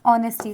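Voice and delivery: ऑनेस्टी starting on the vowel, no H; silent H. Shown as a demonstration. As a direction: demonstrate ऑनेस्टी with the first H silent. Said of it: "इसका pronunciation क्या होता है".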